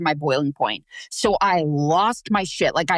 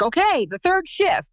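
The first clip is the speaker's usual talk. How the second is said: weary third shift; 11 semitones higher than usual. Retold or imitated. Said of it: "and then it's like".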